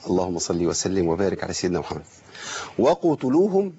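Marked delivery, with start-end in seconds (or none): 2.8-3.7 "وقتلوهم" with the qaf's echo lost and run into a vowel; wrong qaf articulation. Shown as a demonstration. Teacher showing students the mistake, "وقتلوهم" with a muddied qaf. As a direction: slur the qaf of "وقتلوهم" into the taa. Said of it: "ما ينفعش".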